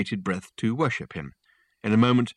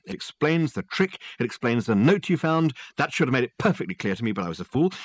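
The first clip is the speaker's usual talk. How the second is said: higher, eager detective lecturing; excited detective explaining his solution, higher; excited Dirk; 4 semitones higher than usual. Acted. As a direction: rattle it off like a brilliant show-off.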